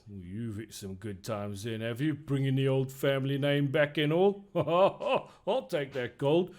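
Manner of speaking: a sly barkeep eyeing the gold coin; innkeeper voice. Acted. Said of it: "he looks over at you and he says".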